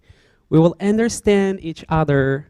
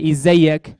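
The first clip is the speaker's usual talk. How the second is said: Egyptian greeting; 5 dB louder than usual. Shown as a demonstration. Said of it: "I'm speaking, uh, Egyptian dialect right now".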